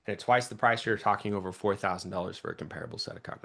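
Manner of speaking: rattled off fast; fast closing line. Shown as a demonstration. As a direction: speed through the numbers. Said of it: "see how there's difference there".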